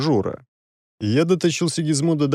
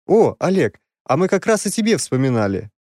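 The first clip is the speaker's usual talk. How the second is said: cheerful greeting; 5 semitones higher than usual. Acted. Prince greets hero cheerfully.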